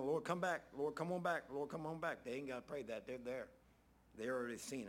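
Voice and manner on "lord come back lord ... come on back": pleading prayer. Retold or imitated. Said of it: "We're praying right now".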